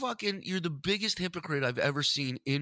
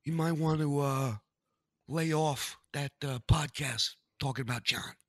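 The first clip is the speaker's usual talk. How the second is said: mock threat; 3 semitones higher than usual. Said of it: "He goes".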